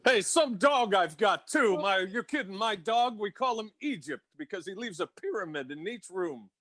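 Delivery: lightly voiced put-upon comic; grumbling no-respect comic, lightly done; Rodney impression. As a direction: do a hint of an old-school one-liner comedian. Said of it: "Bring, bring me Rodney".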